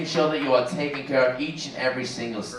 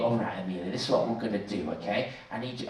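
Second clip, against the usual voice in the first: too low; 7 semitones lower, 8 dB quieter, faster than usual. Real, not acted. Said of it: "I've gone way too low".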